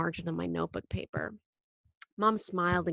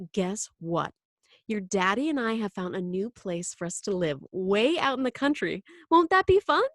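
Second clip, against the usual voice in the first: infused enthusiasm. Acted. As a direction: sell it to a small child as fun. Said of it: "infusing her voice with enthusiasm again".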